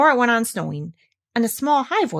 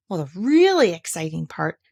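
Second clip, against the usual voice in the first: melancholy; 3 dB louder than usual. Acted. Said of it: "in his most melancholy voice".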